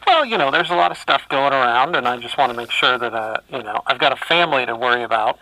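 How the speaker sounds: muffled through a respirator; through an n95 mask. Real, not acted. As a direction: speak through a face mask. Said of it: "This is my respirator that I'm talking through".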